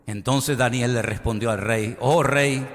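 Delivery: projected, measured Bible reading; Scripture reading. Acted. Preacher reading the story of King Darío to the congregation, solemn Scripture reading.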